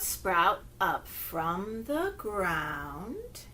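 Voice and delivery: very slow, soft rhyme; slow finger play. Shown as a demonstration. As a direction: draw each word out for little ones. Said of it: "And it goes like this".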